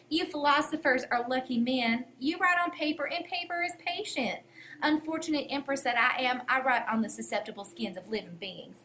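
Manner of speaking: put-on light Southern US accent, sarcastic and sweetly passive-aggressive; lightly voiced Southern US accent dripping with sarcasm. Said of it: "I always read it in my, in my Southern accent".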